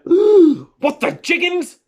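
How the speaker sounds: high, slow astonished gasp. Acted. Little bees shocked to see a bear. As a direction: gasp it out in disbelief. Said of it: "gasped the little bees".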